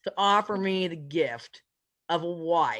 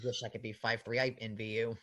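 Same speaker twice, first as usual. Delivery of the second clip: mock wistful envy; 8 semitones lower than usual.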